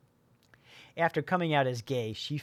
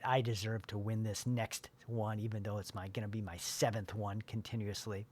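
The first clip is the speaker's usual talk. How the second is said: quiet self-talk; 3 semitones lower, 6 dB quieter than usual. Shown as a demonstration. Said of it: "Keep telling yourself".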